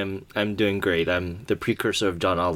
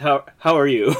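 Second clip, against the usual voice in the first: laughing; 6 semitones higher, 5 dB louder than usual. Real, not acted. Laughing through question.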